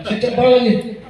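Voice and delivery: delighted, pitch lifted with laughter. Real, not acted.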